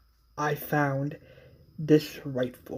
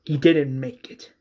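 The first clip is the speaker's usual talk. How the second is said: said out firmly, a bit louder; louder repeat; 6 dB louder than usual. Retold or imitated. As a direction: say it again so it lands. Repeats news after "What?.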